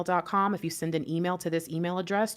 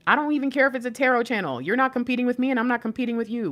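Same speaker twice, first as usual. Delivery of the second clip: excited; 7 semitones higher, 4 dB louder, faster than usual. Real, not acted. Urging viewers, excited.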